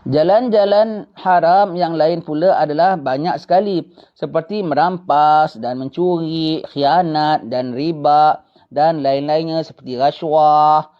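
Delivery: slow, measured reading from the kitab; deliberate kitab reading to a religious class; slow text reading. Acted. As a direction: read each phrase out slowly and deliberately. Reads from the kitab slowly.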